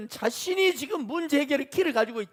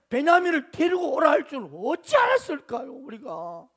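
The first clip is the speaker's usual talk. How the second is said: retold defensive appeal, rising then dropping away; innocent protest. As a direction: plead that it was not your fault. Sons answer back, protesting innocence.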